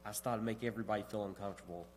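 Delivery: muffled speech through a mask; through a face mask. Real, not acted. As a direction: speak as if a mask covers your mouth. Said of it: "doing a lesson with a mask on".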